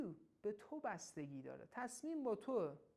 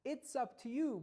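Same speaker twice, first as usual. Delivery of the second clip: praised retake; 5 semitones higher, 5 dB louder, slower than usual. Shown as a demonstration. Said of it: "چقدر خوب میگی".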